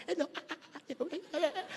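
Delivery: soft cooing to an infant; a light hint of adult baby talk. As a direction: coo softly like pleading with a baby. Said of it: "nakikiusap sa baby".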